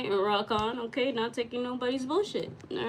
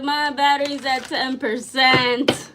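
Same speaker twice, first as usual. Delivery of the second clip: alarmed; 3 semitones higher, 9 dB louder than usual. Real, not acted. Alarmed at battery.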